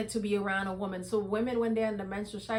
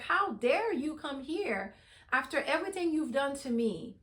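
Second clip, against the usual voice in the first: retold indignation with mild frustration; frustrated, upset; 4 semitones higher than usual. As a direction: voice his outrage, slightly higher and understated. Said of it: "Jacob was very frustrated. He was upset".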